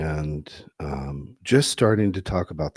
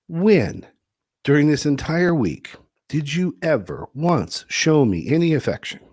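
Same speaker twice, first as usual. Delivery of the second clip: angry wife; 8 semitones higher, 4 dB louder than usual. Retold or imitated. Wife angrily confronting husband in story.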